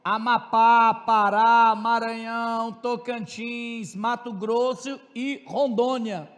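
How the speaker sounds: P=A; slow listing. Shown as a demonstration.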